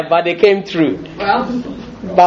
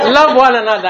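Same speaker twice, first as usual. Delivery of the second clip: laughing; 7 semitones higher than usual. Real, not acted. Laughing return to the verse.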